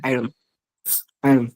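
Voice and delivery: আয়রন with the r sounded, ai-ron; R pronounced. Shown as a demonstration. Teacher modelling iron for learner, R pronounced. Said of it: "এখানে আরটা উচ্চারিত হবে".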